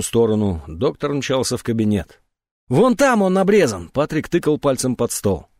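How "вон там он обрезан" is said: higher, louder pointing out; agitated shout. A narrator's reading. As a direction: blurt it out urgently. Patrick shows cut cord.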